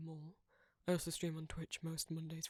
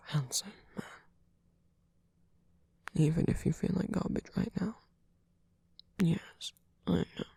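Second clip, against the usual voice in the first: close, fussing, affectionate comfort; tender caretaker; 19 dB louder than usual. Acted. Caretaker soothing a poor boy who feels like garbage, tender. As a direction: comfort them with gentle teasing.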